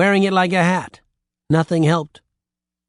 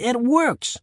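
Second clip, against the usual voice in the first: much higher, bursting with excitement; excited cry; 9 semitones higher than usual. A narrator's reading. Jack and Jill discovering the mirror works, excited cry. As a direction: shout the discovery with joy. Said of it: "they both cried excitedly".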